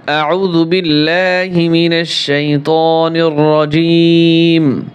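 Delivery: slow, drawn-out Quranic chant; Quran recitation. Acted. Teacher opens the lesson with a slow recited chant. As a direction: intone it like a reciter opening the surah.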